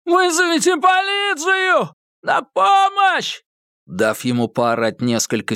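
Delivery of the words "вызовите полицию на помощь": high, drawn-out cry for help; desperate high-pitched yell; screaming for help. A narrator's reading. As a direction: scream for the neighbours to hear. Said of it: "громко закричал Эдди".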